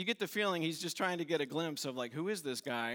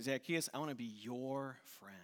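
soft whisper of friendship; a hushed, gentle offer of friendship; whispered invitation; 3 semitones lower, 6 dB quieter than usual. Acted. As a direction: whisper it tenderly, like a secret. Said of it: "He is saying".

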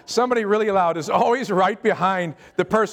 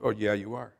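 knowing inner voice; 8 semitones lower, 7 dB quieter than usual. Retold or imitated. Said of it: "having this conversation in my mind".

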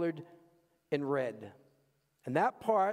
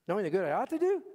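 usual speaking voice

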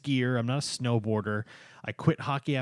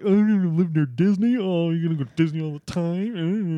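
mocking high, louder disbelief, Boston accent; incredulous people; 6 semitones higher, 5 dB louder than usual. Husband mimicking doubters of the Florida move, incredulous. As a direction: ham up the doubters asking about Disney. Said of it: "a lot of people are like".

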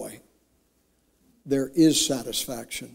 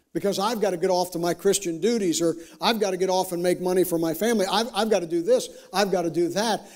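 tag; 4 semitones higher, faster than usual. Acted. Voices busy believer's hurried excuses.

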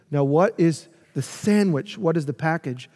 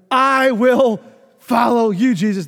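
boastful Peter; 6 semitones higher, 6 dB louder than usual. Retold or imitated.

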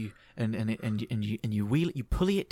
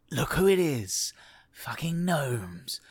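sneering snake; slower than usual. Acted. GM voicing the snake sneering at the gnomes. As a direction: spit the names with contempt. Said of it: "he's going".

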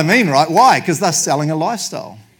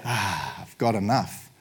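long satisfied sigh, low and soft; imitating relieved contentment; mock contentment; 4 semitones lower, 5 dB quieter, slower than usual. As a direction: breathe out as if finally satisfied. Imagined moment of finally having enough.

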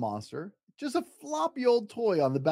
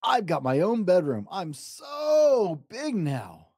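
excited; 3 semitones higher, slower than usual. Acted. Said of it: "sang Little Bear excitedly".

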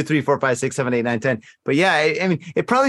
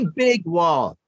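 shout; slower than usual. Acted. Riffing on China, shouting the wall joke. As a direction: shout the big wall line.

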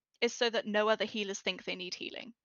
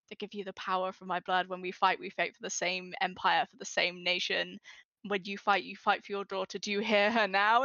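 rousing healer speech. Shown as a demonstration. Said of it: "Little bit of my healing stuff".

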